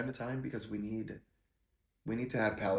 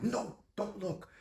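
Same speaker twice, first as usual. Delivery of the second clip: much higher, slow, stretched-out "No, don't look"; angry warning; 11 semitones higher, slower than usual. Retold or imitated. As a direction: drag out each word as a frightened, angry order. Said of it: "getting angry".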